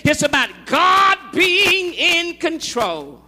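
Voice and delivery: forceful sermon cadence; preaching. Acted.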